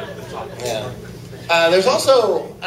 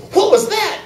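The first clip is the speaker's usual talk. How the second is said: sudden high yelp of surprise; high startled cry, louder; startled groom; 13 semitones higher, 4 dB louder than usual. Acted. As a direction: jump up in pitch, caught off guard.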